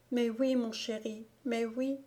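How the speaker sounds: choked-back tears. A narrator's reading. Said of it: "ne put en dire davantage".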